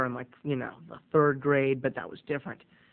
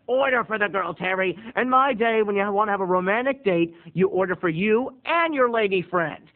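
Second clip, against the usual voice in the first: voiced dad; 2 semitones higher than usual. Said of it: "my dad had given me advice".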